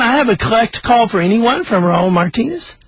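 insistent operator asking for an answer; operator repeating. Retold or imitated. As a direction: repeat the call request, voice lifted at the end. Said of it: "the operator said again".

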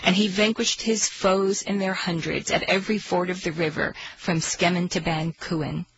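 storyteller reading aloud; story narration. Acted. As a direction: tell it like an old tale.

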